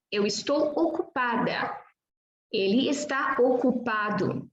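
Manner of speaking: fully articulated "ocupado", no consonant dropped; complete articulation. Shown as a demonstration. Teacher models complete articulation for Portuguese learners, fully articulated. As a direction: say "ocupada" and "ocupado" with every syllable sounded. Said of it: "a completa articulação é fundamental aqui".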